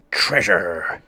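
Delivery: first of three rising cries; excited cry. Acted. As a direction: say it with growing glee. Building excitement.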